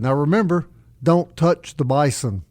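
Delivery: gently wag a finger, draw out "don't touch the bison"; friendly warning. Retold or imitated. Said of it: "both times they said".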